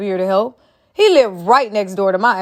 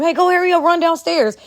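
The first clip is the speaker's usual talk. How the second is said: mock urgent order; 6 semitones higher than usual. Shown as a demonstration. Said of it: "you could tell them".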